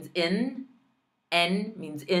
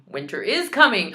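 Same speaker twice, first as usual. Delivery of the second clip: dramatic Game of Thrones warning, louder; dramatic quote; 4 semitones higher, 5 dB louder than usual. Pretend. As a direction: proclaim it like a TV epic. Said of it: "did that by accident".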